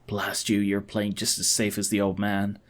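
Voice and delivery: low, soft, annoyed plotter; thwarted schemer. Acted. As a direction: give up on them with a low curse. Galor thwarted.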